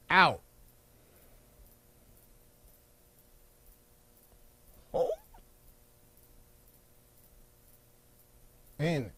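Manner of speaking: single words with very long silences; paced breathing count. Shown as a demonstration. Coach leading four square breathing, slow spaced cues. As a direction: count the breath, one word at a time.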